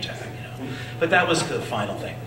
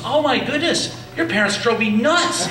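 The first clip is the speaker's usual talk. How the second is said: much higher, louder amused surprise; shocked; 8 semitones higher, 5 dB louder than usual. Retold or imitated. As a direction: recognise him with a start and a laugh. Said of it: "he was shocked".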